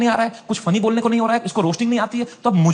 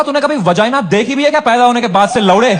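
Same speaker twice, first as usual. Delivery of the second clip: casual comeback; 5 dB louder than usual. Retold or imitated. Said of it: "बड़ी casually mic उठाई".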